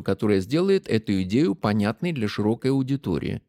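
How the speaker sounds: flat mechanical reading voice; robot voice. Shown as a demonstration. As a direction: read it like a machine, evenly. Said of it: "прочитал механическим голосом".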